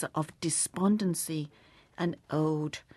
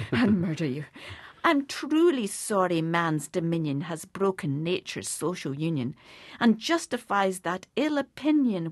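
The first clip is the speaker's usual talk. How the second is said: louder, earnest verse reading; poem recitation; 4 dB louder than usual. Acted. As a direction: read the verse with sorrowful sincerity. Reciting To a Mouse.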